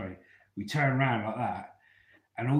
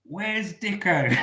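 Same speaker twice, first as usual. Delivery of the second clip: calling out; 8 semitones higher, 7 dB louder, much slower than usual. Retold or imitated. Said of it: "And they go".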